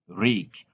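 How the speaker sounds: rick with a short i; short clipped i in rick; correct rick. Shown as a demonstration. Teacher giving the right way, rick with a short i. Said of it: "it is".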